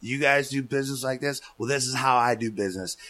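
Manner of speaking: mildly heated, rising retort; amped-up challenge. Retold or imitated. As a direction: throw the challenge back at them. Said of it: "I'm all amped up".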